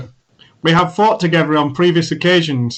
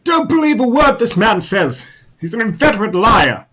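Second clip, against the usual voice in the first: higher, pointed warning; warning about a liar; 5 semitones higher than usual. Acted. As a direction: raise the voice to warn the captain off him. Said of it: "looks at Captain Jack and says".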